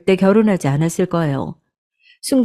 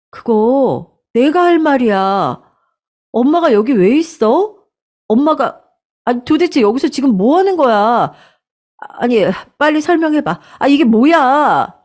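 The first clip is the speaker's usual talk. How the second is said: higher, rising anger, firing questions; angry demand; 6 semitones higher than usual. Acted. Daughter angrily confronting her mother, high and sharp. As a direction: demand answers, getting shriller.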